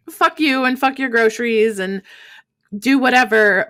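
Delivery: half-serious dismissive outburst; imagined rude dismissal. Retold or imitated. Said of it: "That felt rude".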